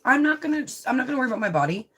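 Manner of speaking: retelling her own defiant vow with heat; fired-up retold resolve. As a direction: burst out with the decision, then race through it. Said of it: "I was like".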